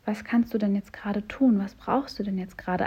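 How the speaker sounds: kindly consoling oneself about an unpleasant moment; compassionate self-talk. Shown as a demonstration. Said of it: "mitfühlend sagen".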